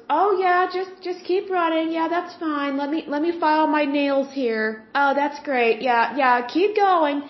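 high, bored, careless encouragement; mock a snobby parent who cannot be bothered. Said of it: "it sounds like a snob".

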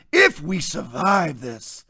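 slow, mocking melodrama; mimicking a dramatic pundit, slowly. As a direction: ham up his overwrought line. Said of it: "he's so dramatic that he puts on".

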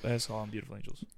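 lightly voiced podcast bro; Big Stan voice. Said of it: "I'm Big Stan".

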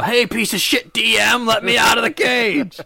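high, drawn-out hollering; play-acted shout at the game master; mock yelling. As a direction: yell to be let out. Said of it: "'cause he can't yell".

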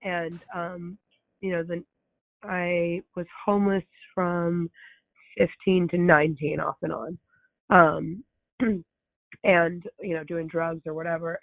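hoarse, strained voice; raspy voice. Real, not acted. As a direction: talk through a raspy throat. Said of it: "excuse my voice, I can't really talk".

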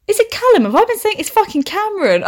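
high, laughing disbelief at her own mistake; surprised realisation. Real, not acted. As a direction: catch your own slip, half laughing. Realising she got the name wrong.

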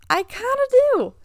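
laughing it out, half embarrassed; laughing admission. Real, not acted. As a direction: own up with a laugh. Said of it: "But honestly".

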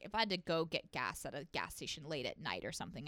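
ordinary delivery

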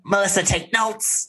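high, put-on teasing call; playful jab. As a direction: sing out a mock instruction. Playful jab at absent cast member.

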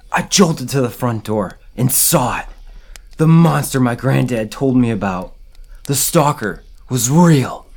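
dramatic first-person horror story reading; read-aloud campfire horror tale; story narration. A narrator's reading. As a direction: tell a scary story, stressing key moments.

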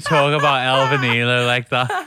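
loud, playfully indignant scolding; mock outrage. Co-host scolds friend over a slight, loud mock indignation. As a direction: make a show of being scandalised.

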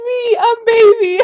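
high, slow, laughing squeal. Real, not acted. Joking about baby drinks.

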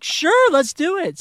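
put-on high, wide-eyed innocent boy voice; wholesome 1950s kid. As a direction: sound like a gee-whiz kid. Playing his innocent younger self.

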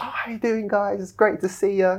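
lightly voiced carefree greeting; breezy greeting. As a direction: act casual like nothing happened. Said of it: "like my normal self".

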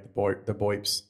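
burping while talking; words broken by a burp. Real, not acted. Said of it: "I'm burping my ass off".

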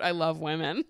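giddy laughing exclamation. Real, not acted. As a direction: say it through a real laugh. Laughing while reading own note.

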